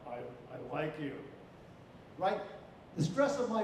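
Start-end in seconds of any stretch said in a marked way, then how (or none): 0.1-1.1 "like" stressed, lower and softer, falling. Shown as a demonstration. Teacher showing stress on "like" changes meaning. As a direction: punch the word "like". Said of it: "or I could say".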